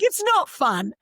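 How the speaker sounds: put-on high, loud kid complaint; complaining child. Nine-year-old to mum about podcast, high complaining voice.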